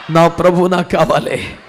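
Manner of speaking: low plea in full voice; steady, voiced longing; firmer plea. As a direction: repeat the plea aloud, insisting. Plea repeated with more voice.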